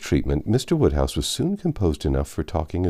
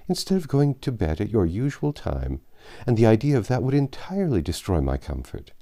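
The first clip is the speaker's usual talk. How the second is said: put-on higher, fussy elderly gentleman voice; fretful old father; 5 semitones higher than usual. Anxious father worrying over Emma dining out, fretful old voice. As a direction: fret over late hours and damp air like an anxious old man. Mr Woodhouse worries about Emma.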